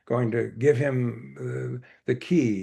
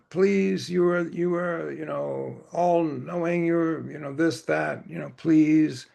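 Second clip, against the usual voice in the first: higher-pitched retold plea; begging; 4 semitones higher, slower than usual. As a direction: beg the master, lightly acted. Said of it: "he begged him".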